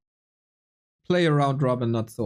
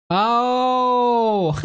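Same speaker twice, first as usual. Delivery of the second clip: a loud, high startled "Oh!" as the joke lands; sudden realization; 9 semitones higher, 3 dB louder than usual. Real, not acted. Streamer gets the viewer's joke late, loud surprised oh. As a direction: shout it out the moment it clicks.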